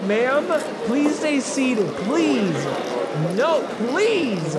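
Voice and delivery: high, loud desperate begging; pleading usher. Acted. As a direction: beg them to stay, voice climbing. Pleading with seated audience.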